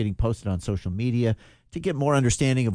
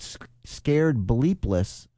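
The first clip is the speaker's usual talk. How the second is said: slow quoted phrase; 3 semitones higher, much slower than usual. Retold or imitated.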